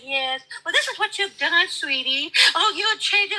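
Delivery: mock sweet talk. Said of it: "cupcake and kiss a white man's ass and say".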